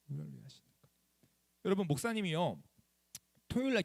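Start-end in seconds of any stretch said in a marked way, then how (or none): 0.1-0.9 a much lower, softer repeat of the line; soft low echo. Shown as a demonstration. 아이들에게 낮고 부드럽게 되뇌는 목사님. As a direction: pastor echoes the promise softly to the kids, low and soft. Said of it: "하나님이 우리를 위하시니까".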